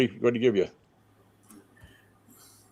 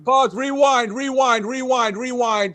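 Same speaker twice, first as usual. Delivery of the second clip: frantic pause; 7 semitones higher, slower than usual. Real, not acted. Friend frantically stops the story with high cries. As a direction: cut him off hard, high-pitched.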